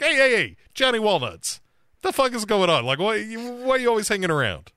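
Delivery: high-pitched, hammed-up challenge; playfully irate, pitched well up; mock confrontation. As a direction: confront him with comic indignation. Retold challenge, one of best Sendo moments.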